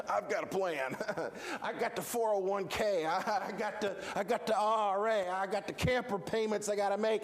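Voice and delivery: nervous mock laugh between excuses; chuckling excuses. Believer listing retirement plans to God, chuckling uneasily. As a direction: stammer out excuses with little chuckles.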